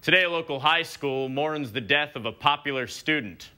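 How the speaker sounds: measured broadcast read, lightly done; news anchor voice. Retold or imitated. Comic quoting a TV anchor's solemn line. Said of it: "an anchor said".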